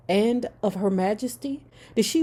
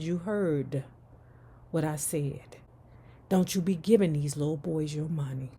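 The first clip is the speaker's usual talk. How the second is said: quieter, lower firm warning; low stern grandma repeat; 3 semitones lower, 5 dB quieter than usual. Retold or imitated. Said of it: "She said".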